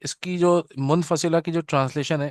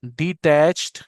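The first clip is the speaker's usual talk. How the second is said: dictating slowly; 4 dB louder, much slower than usual. Shown as a demonstration. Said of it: "आप पहले इसकी heading दे लें".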